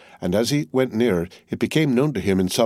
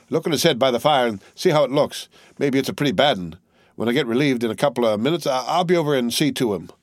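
a touch higher, eager and kind; lightly voiced caring friend calling out; 3 semitones higher than usual. Wilson calling to the corporal, gently urgent. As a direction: call after them with mild urgency. Wilson calls after them.

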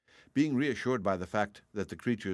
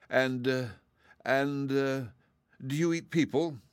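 put-on higher, stammering nervous girl; mild hesitant fear; 6 semitones higher than usual. A narrator's reading. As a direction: stumble over it, afraid of the answer. Dorothy, frightened, stammers.

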